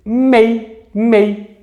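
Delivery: mei, sung out as one clean syllable; syllable drawn out. Shown as a demonstration. Teacher demonstrating the syllable mei. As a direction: say mei, mei slowly to show one voice push. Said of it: "o meu aparelho fonador suporta dizer".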